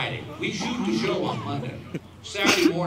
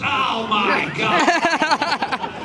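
surprised shout; 7 semitones higher, 6 dB louder, much slower than usual. Real, not acted. Shocked at making the finals.

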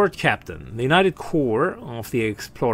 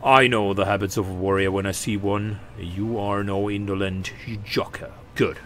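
lightly voiced old comrade-in-arms, a little lower; approving warrior chieftain; 3 semitones lower than usual. Warrior sizing up a fellow fighter, mildly imposing. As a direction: grant your approval as a pack leader.

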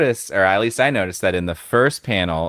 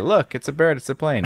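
excited shout; 7 semitones higher than usual. Retold or imitated. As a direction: point and shout in amazement. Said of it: "kind of like the".

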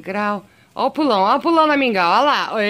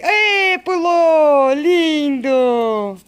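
much higher and louder, thrilled; excited squeal; 7 semitones higher, 7 dB louder, much slower than usual. Real, not acted. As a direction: cheer the jump with delight. Cat jumps suddenly.

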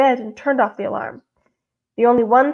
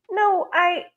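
faltering; 6 semitones higher, 3 dB quieter than usual. A narrator's reading. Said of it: "his voice faltered".

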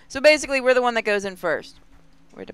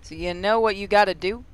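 put-on light Aussie accent, relieved; relieved Aussie contact; mild Australian accent. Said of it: "they're Australian".

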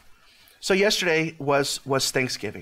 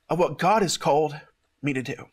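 usual speaking voice

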